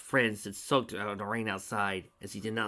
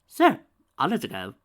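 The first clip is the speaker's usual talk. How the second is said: sly villain; 7 semitones higher, 10 dB louder than usual. A narrator's reading. Villain's false agreement.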